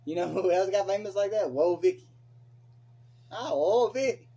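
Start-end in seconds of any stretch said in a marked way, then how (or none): 1.5-2.1 a mild first go at Vicky's drawled whoa; half-hearted imitation, only a touch louder; mocking Vicky. Mocking how Vicky talks to his co-host, lightly. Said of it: "That's how she talk". 3.3-4.3 higher, louder mock whoa, Vicky. Mimicking the reality star for his friend, higher and louder. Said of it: "That's how she talk".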